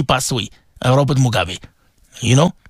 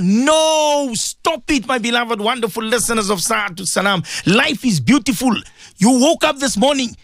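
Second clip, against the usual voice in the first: exhorting preaching; 5 semitones higher than usual. Real, not acted. Resumes preaching to listeners.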